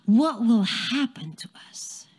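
whispered worry, barely voiced; anxious whisper. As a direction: breathe the fear out under your breath. Father worrying about his job.

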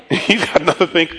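grudging mutter. Retold or imitated. Churchgoer muttering after claiming to forgive, resentful. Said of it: "we'll say it's fine, walk away".

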